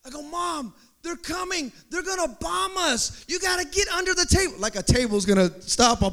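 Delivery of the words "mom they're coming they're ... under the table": higher, urgent, speeding up at the end; scared kid pleading. Retold or imitated. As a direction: beg mom to hide, getting faster. Child warns mom about bombs.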